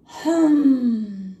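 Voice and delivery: musing hmm; thoughtful hum. A narrator's reading. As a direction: hum while thinking it over. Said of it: "murmured Horton".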